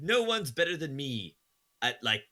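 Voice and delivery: mock boasting with absolute conviction; sarcastic overconfidence. Podcaster demonstrating confident nonsense to co-hosts, sarcastic bragging. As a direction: brag absurdly, pitch climbing on the biggest claims. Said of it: "obviously I'm being sarcastic".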